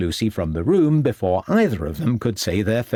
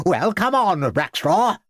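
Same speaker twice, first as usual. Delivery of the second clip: a hint of weary headmaster; sighing impatience; 8 semitones higher than usual. A narrator's reading. Headmaster waiting on a slow pupil, sighing. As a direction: sigh it out, tired of waiting. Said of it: "sighed Smeaton".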